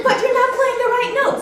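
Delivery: high, loud, laughing protest; laughing correction. Retold or imitated. Teacher retelling her laughing reply to a student. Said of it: "I said".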